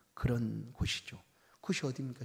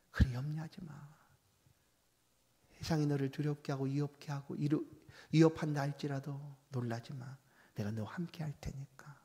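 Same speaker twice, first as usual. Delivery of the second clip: God's tender voice. Acted. A touch of God comforting the fearful, calm and reassuring. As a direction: soothe a frightened child. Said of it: "이게 주의 목소리입니다".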